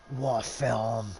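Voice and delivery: fond exclamation. Real, not acted. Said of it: "one of my favourite films".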